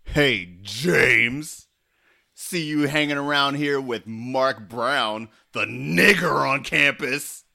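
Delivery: acted racist bully. Auditioning actor taunts the hero, bully voice. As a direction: sneer it out at James. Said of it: "let's see what you got".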